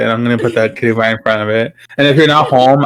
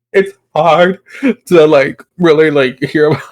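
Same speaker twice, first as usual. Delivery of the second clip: mock tearful stammer, broken up; stuttering, crying; 2 semitones higher, slower than usual. Friend mimicking Ruby reacting to a story, tearful stutter. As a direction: imitate someone catching their breath while crying. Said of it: "stuttering on her words 'cause she's".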